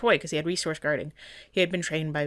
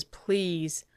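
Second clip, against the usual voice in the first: voicing the pleading dog; slower than usual. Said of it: "She says".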